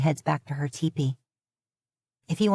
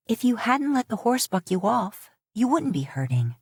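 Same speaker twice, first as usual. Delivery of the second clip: sharp; 5 semitones higher than usual. Acted. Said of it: "she says sharply now".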